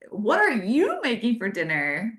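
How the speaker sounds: friendly, upbeat question with a lift on "are"; positive voice. Shown as a demonstration. Showing husband how a text reads in a positive voice. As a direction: ask "what are you making for dinner?" brightly, rising at the end. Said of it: "what if you read it in a really positive voice?".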